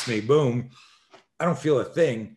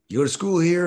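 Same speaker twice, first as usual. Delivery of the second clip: menacing bully; 8 semitones higher, 6 dB louder than usual. Retold or imitated. Bullies confront boy after baseball.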